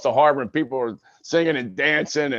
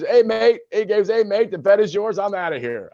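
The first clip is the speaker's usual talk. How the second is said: Colin Farrell quote; 9 semitones higher than usual. Retold or imitated. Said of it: "that was Colin Farrell".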